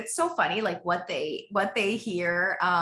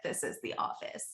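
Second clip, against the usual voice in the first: whispered; 8 dB quieter than usual. Retold or imitated. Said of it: "And I'm like".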